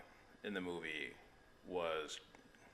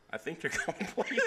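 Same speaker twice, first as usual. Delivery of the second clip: chuckling mid-sentence; laughing; 10 semitones higher, 3 dB louder than usual. Real, not acted. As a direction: break into laughter halfway. Joking about a gag.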